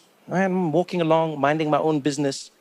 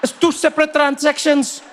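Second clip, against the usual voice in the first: high, loud, put-upon local guy; explaining street fan; 9 semitones higher, 4 dB louder than usual. Acted. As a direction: explain it insistently to someone who doesn't get it. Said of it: "He's like".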